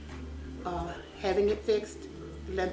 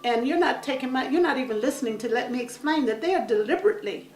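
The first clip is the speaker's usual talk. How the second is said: raised, pleading voice; pleading to judge; 5 semitones higher than usual. Retold or imitated. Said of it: "we're sitting here like".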